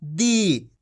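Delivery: दी with the ee held long; lengthened ee on दी. Shown as a demonstration. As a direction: draw out the vowel of दी. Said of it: "बड़ी ई का उच्चारण जोड़ना है".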